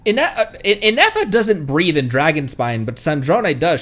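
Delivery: usual speaking voice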